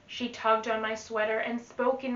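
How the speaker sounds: put-on lively read-aloud to children; teacher reading a rhyming book to the class; storybook reading. Teacher reads picture book aloud.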